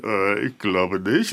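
deadpan slow reply; dry joking answer. Retold or imitated. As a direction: drop the punchline dryly. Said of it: "Scherze gemacht".

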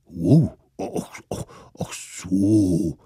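a mild sheepish mammoth. Acted. Mammoth realizes.

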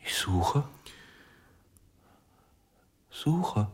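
whisper. Acted. Broken man searches, whispering.

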